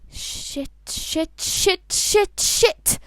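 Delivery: spiral from hushed curse into a yelled one; panic building from whisper to shout. Acted. Albus realising his crush, panic building from whisper to shout.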